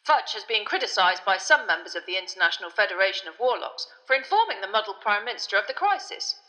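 loud, projected news-reading voice; newspaper report read aloud. A narrator's reading. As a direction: announce it like an urgent bulletin.

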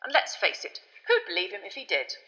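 high, loud, exasperated minister; irritable official. A narrator's reading. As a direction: protest tetchily, voice pitched well up. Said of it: "said an irritable Fudge".

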